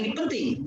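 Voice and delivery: "ini penting" said with the pitch lifted on "penting"; rising intonation. Shown as a demonstration. Teacher shows students how to lift "ini penting" with rising intonation. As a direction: raise the tune on "penting" to mark importance. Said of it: "jadi naik gitu ya si intonasinya".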